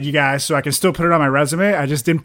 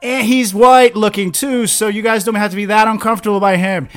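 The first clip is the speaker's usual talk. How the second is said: high, louder mock-excited announcement; excited organizer voice; 5 semitones higher, 4 dB louder than usual. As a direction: hype it up like a booker. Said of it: "They're like".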